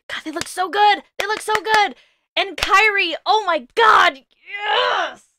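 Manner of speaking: high, excited squealing; gushing. Real, not acted. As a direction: gush in real delight, pitched right up. Gushing over the game's characters.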